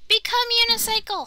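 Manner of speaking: loud, dramatic command; excited command. Pretend. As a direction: call out the transformation. Mock transformation command.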